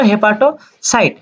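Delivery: "হেপাটোসাইট" said slowly, syllable by syllable, as a drill. Shown as a demonstration. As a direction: stretch out "হেপাটোসাইট" so the class can repeat it. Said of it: "এটাকে আমরা কি বলবো?". (ধীরে ধীরে স্পষ্ট উচ্চারণ)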